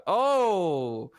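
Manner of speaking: loud, high drawn-out "oh"; excited whoop. Pretend. Caster riding along with the wild camera, excited whoop. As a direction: whoop as if on a roller coaster. Calling a roller-coaster replay.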